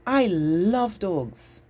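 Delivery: slow, drawn-out enthusiasm; an exclamation full of feeling; excited. Shown as a demonstration. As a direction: stretch it out with strong excited feeling. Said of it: "hear how excited I am about dogs".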